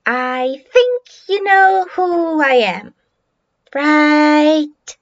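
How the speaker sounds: slow, drawn-out intimidation; understated taunting drawl; mild bully's menace. Acted. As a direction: lean on each word slowly, as a light threat. Bully looms over small child.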